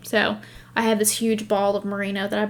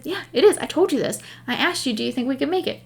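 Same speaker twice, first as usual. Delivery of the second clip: exasperated retort; 4 semitones higher, faster than usual. Retold or imitated. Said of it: "I said".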